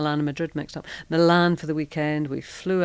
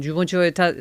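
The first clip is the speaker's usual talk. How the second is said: badly faked Italian accent, a bit louder; 2 semitones higher, 6 dB louder, faster than usual. Italian stranger running after her at the checkout, bad Italian accent. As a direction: put on a clumsy Italian accent that slips. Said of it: "do a bad Italian accent".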